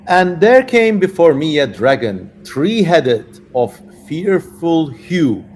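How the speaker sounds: lightly voiced solemn king; slow, solemn scripture reading; King Solomon voice. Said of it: "I'm just getting into character now".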